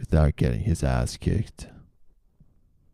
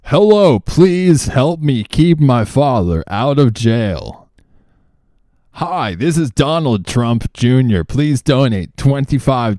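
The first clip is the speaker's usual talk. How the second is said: much higher, louder, pleading put-on voice; parodying his YouTube donation plea; mock Donald Trump Junior; 8 semitones higher, 6 dB louder than usual. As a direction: beg for donations in a silly high voice. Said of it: "he's like".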